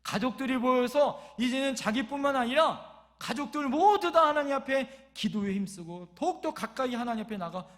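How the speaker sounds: loud, emphatic sermon delivery; preaching. Real, not acted. Preacher urging united family prayer, forceful preaching. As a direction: drive it home to the congregation.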